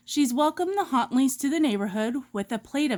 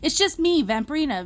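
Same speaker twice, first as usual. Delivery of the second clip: quickly; 3 semitones higher, faster than usual. Acted. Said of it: "V says quickly".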